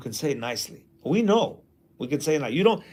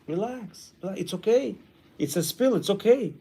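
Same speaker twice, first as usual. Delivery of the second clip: soothing calm; 5 dB quieter than usual. Shown as a demonstration. Calming parent.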